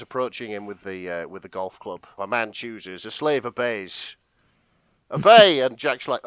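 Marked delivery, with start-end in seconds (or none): 2.2-4.2 slow, deliberate menacing delivery; menacing Ryan line. Acted. Ryan advances on Jack, slow and menacing. Ryan approaching with golf club. 5.1-5.6 loud, higher furious bark; shouted command. Acted. Ryan screams the command at Jack. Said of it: "now he's screaming at me".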